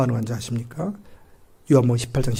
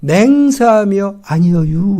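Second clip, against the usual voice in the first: slow rural-dialect oath, 아니여유 drawn out with a rise; Galilean dialect, swearing; 4 semitones higher, 6 dB louder, much slower than usual. Retold or imitated. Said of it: "갈릴리 사투리 쓴다는 거죠".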